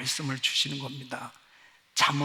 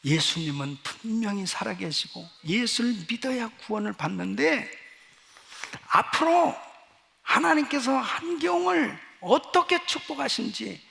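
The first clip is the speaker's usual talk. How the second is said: bold proclamation; 3 semitones higher than usual. Retold or imitated. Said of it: "다 선포하고".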